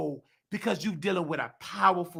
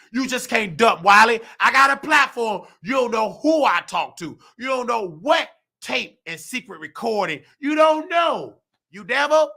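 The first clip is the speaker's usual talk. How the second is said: raised, defiant voice, punching each "you don't know"; angry retort; 2 semitones higher, 4 dB louder than usual. Retold or imitated. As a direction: lay into them, louder and louder. Defiant rant at hospital staff.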